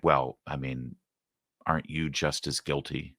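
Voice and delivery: sly hint of blame in a mock reporter voice; mock insinuating. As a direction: imitate a loaded, needling question. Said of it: "she asks it in such a way".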